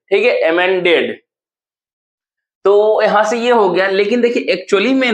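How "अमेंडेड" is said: अमेंडेड with its second part "मेन" stressed. Shown as a demonstration. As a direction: press on "मेन" when saying अमेंडेड. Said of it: "हम word को जब pronunciation करेंगे". (अमेंडेड बोलते हुए "मेन" पर ज़ोर)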